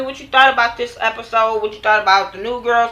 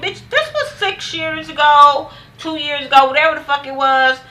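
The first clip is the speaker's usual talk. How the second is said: imitating Drea; 6 semitones higher than usual. Retelling Drea's angry reply.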